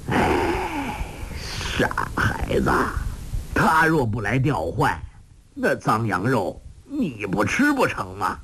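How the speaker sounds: a long sigh, then a breathy hushed aside; sighing old master. Acted. Old beggar master sighing at his naive disciple. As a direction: shake your head at the silly boy with a sigh. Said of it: "洪七公叹道".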